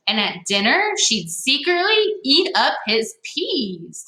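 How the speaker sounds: lively storybook read-aloud; reading to children. Acted. Teacher reading a picture book to young listeners, lively. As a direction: read it to the kids with bounce.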